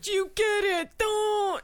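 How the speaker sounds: clueless dude voice. Retold or imitated. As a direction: play a confused man missing hints. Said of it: "are they just like".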